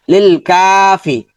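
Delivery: লিল কাফি with a held কা and brief ফি; long কা, short ফি. Shown as a demonstration. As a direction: stretch কা then say ফি short. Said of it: "ফিটা হরকত দ্রুত হবে".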